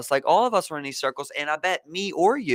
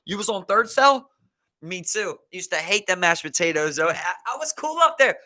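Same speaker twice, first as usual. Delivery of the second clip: mock excited ex-con; 3 semitones higher, 5 dB louder than usual. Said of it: "He's like".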